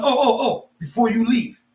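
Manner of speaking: high-pitched, pointed calling back; mock-polite interruption. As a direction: stop someone leaving with false politeness. Stops departing landlord, acted.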